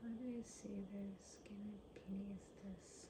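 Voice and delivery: hushed whispered aside; whispering. Real, not acted. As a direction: whisper it to yourself.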